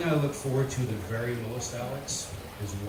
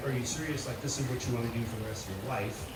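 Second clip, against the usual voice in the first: doubting, skeptical; 6 dB quieter than usual. Shown as a demonstration. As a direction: sound unconvinced, like it's a bad idea. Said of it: "I didn't mean, like".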